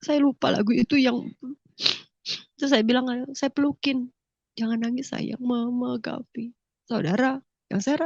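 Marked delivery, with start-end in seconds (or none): 3.3-6.5 put-on soft, hushed words to a crying child; tender comfort. Mother hugging her crying son, hushing him tenderly. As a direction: hold him close and soothe him softly.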